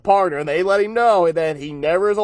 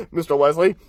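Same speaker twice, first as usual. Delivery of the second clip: Darth Vader voice; 4 semitones lower, faster than usual. Retold or imitated. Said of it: "the Darth Vader parody".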